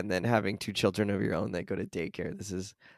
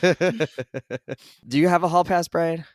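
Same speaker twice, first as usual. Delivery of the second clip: teasing laugh; 6 semitones higher, 3 dB louder than usual. Real, not acted. Teasing friend about hall pass.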